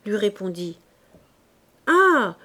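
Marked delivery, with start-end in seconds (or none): 1.9-2.4 shouted reply. Acted. Soldier answers over cannon noise.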